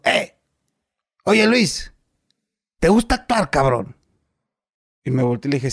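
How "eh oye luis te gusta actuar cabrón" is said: calling across the room, pitched high; a director calling after him as he leaves; retold call out. Director calls out to the departing actor, high called-out voice. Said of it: "me grita el gordo".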